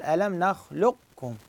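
nakhluq-kum with q held unbounced before k; partial merging of qaf. Shown as a demonstration. Teacher giving the partial-merging reading, qaf unbounced. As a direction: stop on the q, then say kum. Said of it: "أبو الإدغام الناقص".

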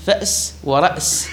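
"فأس ورأس" each with a glottal stop; original hamza forms. Shown as a demonstration. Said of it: "وبإبدالها ألفا على القياس في نحو". (نطق «فأس ورأس» بهمزة ساكنة)

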